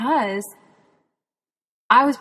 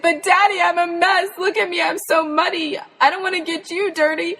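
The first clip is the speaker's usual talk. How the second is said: put-on 1 childlike protest; 9 semitones higher, 4 dB louder than usual. Child Jen protesting hug.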